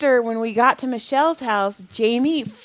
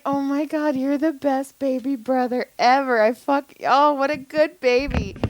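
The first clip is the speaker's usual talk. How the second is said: higher, cooing over a little brother; retold gushing praise; 4 semitones higher than usual. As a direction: gush like a doting big sister.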